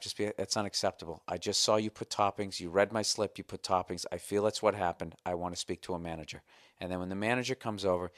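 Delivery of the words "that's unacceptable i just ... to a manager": calm, measured complaint to staff; keeping cool. Acted. Customer telling pizza staff it's unacceptable, keeping cool. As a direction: lodge a firm complaint without heat. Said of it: "You just have to keep your cool".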